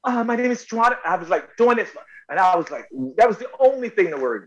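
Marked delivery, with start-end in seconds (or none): 0.0-1.0 trying a woman's voice. Retold or imitated. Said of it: "how do I do a voice?".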